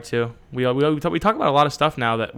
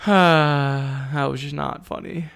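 deadpan; much slower than usual. Retold or imitated. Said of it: "I'm just like".

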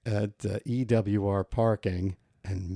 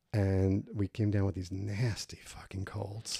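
sick voice; 6 dB quieter than usual. Real, not acted. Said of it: "it sounded like Drek".

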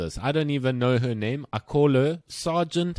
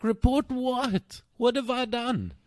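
incredulous protest; 11 semitones higher, slower than usual. Retold or imitated. Retelling his protest.

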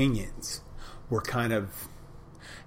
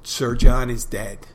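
Pistol declaring; 8 dB louder than usual. Retold or imitated. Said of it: "Pistol walks over and goes".

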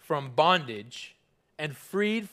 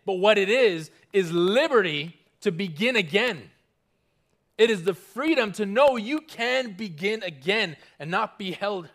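rising declaration; 2 semitones higher, 3 dB louder than usual. Real, not acted. Preacher building to declaration.

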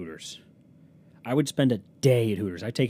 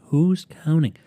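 loud, higher, punchy rhetorical question; emphatic; 5 semitones higher, 9 dB louder, much slower than usual. Real, not acted. Podcaster brushing off how long ago it was, loud and emphatic. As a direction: throw it out loudly, pitched up.

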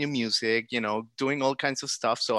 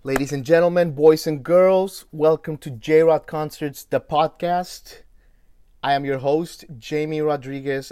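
booming showman intro, louder and higher; grand entrance announcement; 5 semitones higher, 10 dB louder than usual. Acted. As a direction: announce it like a ringmaster to a crowd. Host's big show opening.

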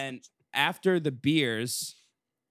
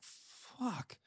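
drawn-out whispered swear in disbelief; whispered curse; 10 semitones higher, 14 dB quieter than usual. Retold or imitated. Telling Lucas about the empty food line, whispered curse. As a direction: whisper it, retelling the dismay. Reaction to being told food ran out.

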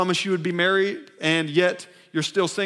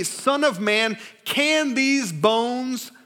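raised, very drawn-out scripture reading; God's solemn question; 5 semitones higher, much slower than usual. Acted. God asking the prophet about dry bones, solemn and stretched. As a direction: stretch each word slowly and high. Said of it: "who said it? God".

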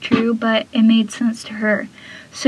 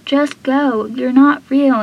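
retold yell; 3 semitones higher, 5 dB louder than usual. Andy yells at Tim.

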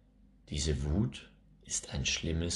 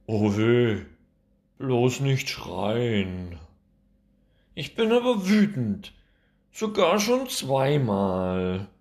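put-on angry little girl; 7 semitones higher, 8 dB louder, slower than usual. Angry child voiced in story.

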